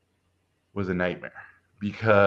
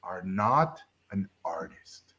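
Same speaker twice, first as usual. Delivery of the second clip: slow, hushed near-whisper Yoda imitation; lightly voiced wise master passing judgment; Yoda-like verdict; 3 semitones lower, 7 dB quieter, slower than usual. Art teacher rejecting the seventeen-year-old, a hushed, slow Yoda imitation. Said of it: "the way he talked like Yoda".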